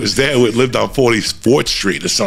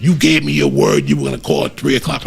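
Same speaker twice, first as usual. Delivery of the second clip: higher-pitched mother's reproach; retold maternal scolding; 4 semitones higher than usual. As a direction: scold like an angry mom. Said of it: "Just unleashed on me".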